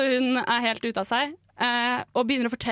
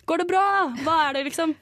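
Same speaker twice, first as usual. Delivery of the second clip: raised call across the road, pitched up; 5 semitones higher, 3 dB louder, much faster than usual. Retold or imitated. Calling across the road to a fallen old woman, raised voice. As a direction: call out to a stranger lying on the ground. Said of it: "så jeg roper sånn".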